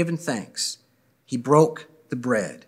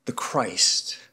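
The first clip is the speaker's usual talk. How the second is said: whispered reverently, softer; hushed whisper; 4 semitones lower, 7 dB quieter than usual. Real, not acted. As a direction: breathe it like a secret of faith. Closing blessing, hushed emphasis.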